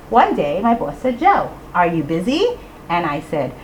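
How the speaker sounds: singsong lines building to a big payoff; comic build to an explosive punchline; playful recitation. Shown as a demonstration. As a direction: recite it playfully, then burst out on the last words. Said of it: "I changed it a little bit".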